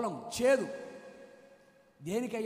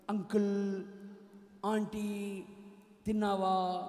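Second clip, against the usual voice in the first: mock sweet, polite chatter; nice talk; 3 semitones lower, much slower than usual. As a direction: imitate someone sweetly making small talk. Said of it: "నైస్గా మాట్లాడి".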